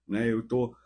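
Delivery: ordinary talk, nothing marked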